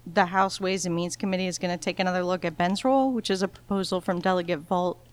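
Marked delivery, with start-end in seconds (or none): 3.1-5.0 mouth not working. Real, not acted. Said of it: "my mouth doesn't work".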